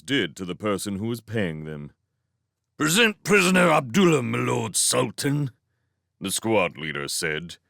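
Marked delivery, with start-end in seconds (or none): 2.8-5.5 loud, high, rapid announcement at first; formal soldier's shout; military report. A narrator's reading. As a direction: present a prisoner to your ruler. Squad leader formally reports to Sultan.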